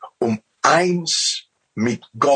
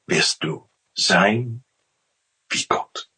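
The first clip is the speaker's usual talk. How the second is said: low, hushed tempting serpent; sly serpent; 4 semitones lower than usual. Retold or imitated. Serpent tempting Eve in the garden, low and hushed. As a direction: lure her in a low, half-whispered hiss. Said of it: "dann sagt die Schlange".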